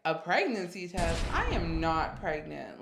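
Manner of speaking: slow, emphatic refusal to believe it; firm denial. Retold or imitated. Retelling her reply to cousin's pregnancy test demand, firm denial. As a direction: deny it flat out, word by word. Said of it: "in firm denial".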